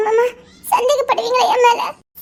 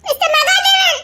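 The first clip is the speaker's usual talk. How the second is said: rising tearful cries, higher each time; crying shout; 6 semitones higher, slower than usual. Acted. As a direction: call his name out in despair. Girl crying out his name. (அழுகையுடன் கத்தல்)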